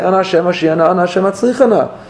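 high, driving plea for success; intense kavanah. Shown as a demonstration. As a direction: push it like you're demanding. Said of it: "I have all this Kavanah when I say".

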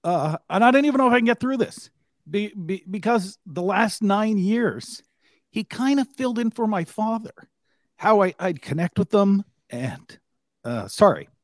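real emotion, voice tightening; fighting back tears while speaking; holding back tears, words catching; choked up. Real, not acted. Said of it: "I'm gonna get emotional here".

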